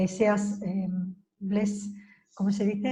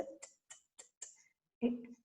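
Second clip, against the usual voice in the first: quiet t taps; 17 dB quieter than usual. Shown as a demonstration. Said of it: "Ellos es t".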